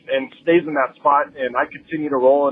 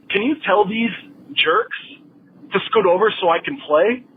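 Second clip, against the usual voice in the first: rude demand; 6 semitones higher than usual. Retold or imitated. Rude old lady demanding at table.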